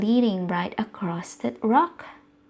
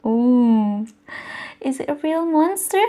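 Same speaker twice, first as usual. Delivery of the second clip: mock suspense; 3 semitones higher, 3 dB louder than usual. Asking child, mock suspense.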